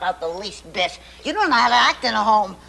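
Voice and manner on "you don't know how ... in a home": louder, faster rising tirade; wife berating husband over his bachelor habits, rising reproach. Acted. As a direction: let the grievance spill out and build. Mother's rising tirade against husband.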